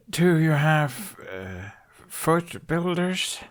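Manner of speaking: slow, halting whispered question; slow unsure whisper to the tailor; hesitant whisper. Acted. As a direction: fumble for a foreign word under the breath. Foreigner asks hesitantly.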